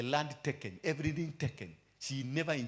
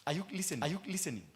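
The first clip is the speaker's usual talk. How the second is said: call to congregation; 5 semitones higher, faster than usual. Acted. Calls to congregation.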